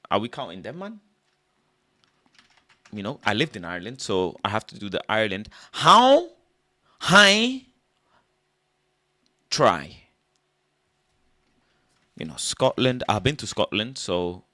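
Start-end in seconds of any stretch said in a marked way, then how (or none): 5.7-10.0 high loud mock Irish count. Comic doing Ireland, loud high mock Irish count. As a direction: yelp how high try in a mock Irish lilt.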